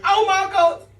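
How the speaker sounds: high mock shriek of delight; wife's shriek. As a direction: squeal it like she's thrilled. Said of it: "She went".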